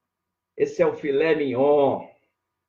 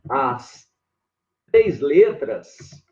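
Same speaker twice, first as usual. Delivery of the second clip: slow dictation; 2 semitones lower, much slower than usual. Shown as a demonstration. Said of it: "essas três letras finais".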